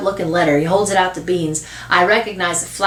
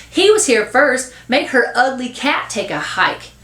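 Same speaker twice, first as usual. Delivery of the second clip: put-on higher-pitched, insistent boy; arguing; 6 semitones higher than usual. Boy demanding the cat leave instead, arguing. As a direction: press the point, put out. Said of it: "Bean argues".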